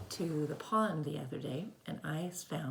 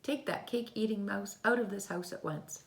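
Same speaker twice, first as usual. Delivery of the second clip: stern mum; 6 semitones higher than usual. Acted. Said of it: "Then she said".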